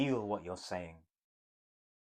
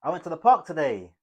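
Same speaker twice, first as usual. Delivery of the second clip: much louder and higher, thrilled; bright excited exclamation with stress on park; 7 semitones higher, 13 dB louder than usual. Shown as a demonstration. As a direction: burst out with it loud and high. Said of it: "Third tone".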